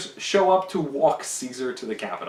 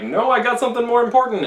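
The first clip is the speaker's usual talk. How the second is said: higher, louder impatient dismissal; brusque brush-off; 9 semitones higher, 7 dB louder than usual. Retold or imitated. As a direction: shove him aside with your voice. Trebonius brushes Artemidorus off.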